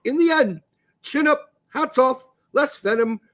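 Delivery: lightly put-on posh English accent, snobby; posh Englishman. Host reads out a snobby public response, mock posh English. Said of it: "I had to read it as a posh Englishman".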